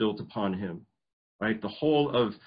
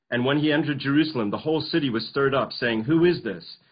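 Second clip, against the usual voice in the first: dramatic reading; 4 semitones higher, 5 dB louder than usual. Acted. Reading the entry scene.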